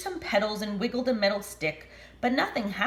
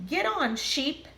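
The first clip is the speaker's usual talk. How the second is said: shouting; 8 semitones higher than usual. Acted. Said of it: "everyone shouted".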